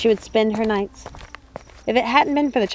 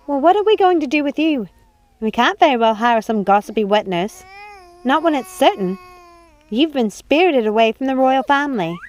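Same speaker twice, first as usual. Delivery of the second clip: put-on high, scolding old woman; shocked high-voiced old servant; old housekeeper; 4 semitones higher than usual. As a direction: fuss at her mistress in a high old voice. Housekeeper coos to baby.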